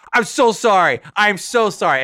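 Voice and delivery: high, loud panicked sorry; frantic apology. Retold or imitated. Apologizing to the stranger he just hit, high and panicked. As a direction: gush apologies high and fast.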